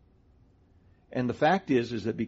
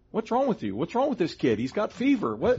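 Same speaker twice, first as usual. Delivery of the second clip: high, startled mock alarm; a parent baffled by a thankful child; 8 semitones higher than usual. Parent shocked at a grateful child, mock alarm. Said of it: "we would go".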